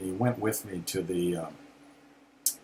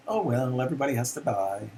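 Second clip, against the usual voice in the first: imitating mother's breezy voice; 4 semitones higher, faster than usual. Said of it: "that same voice later when she said".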